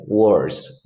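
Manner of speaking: "worse" said slowly and clearly, one syllable; drawn-out "worse" for students to copy; slow English model word. Shown as a demonstration. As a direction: stretch out "worse" so the class hears each sound. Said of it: "Mire cómo se escribe worse".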